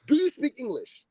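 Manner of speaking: flashing. Retold or imitated. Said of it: "I flash him like".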